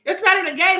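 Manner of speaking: NOT pushed up; insisting. Real, not acted. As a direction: lean hard on not. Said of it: "I am so serious".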